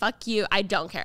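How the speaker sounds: ordinary talk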